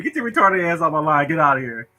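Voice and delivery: mock scolding lunch lady. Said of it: "That's the way the lunchroom lady used to be looking at me".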